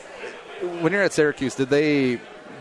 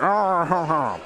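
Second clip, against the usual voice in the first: high mock roar of arguing; mock angry growl; 7 semitones higher, much slower than usual. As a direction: imitate a heated online rant as noise. Imitates relatives raging online.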